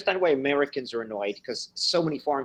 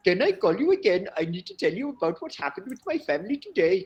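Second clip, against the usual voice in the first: put-on higher voice, Indian accent asking again; higher mock pleading Indian accent; earnest student plea; 8 semitones higher than usual. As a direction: mimic a needy student. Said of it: "he called me again".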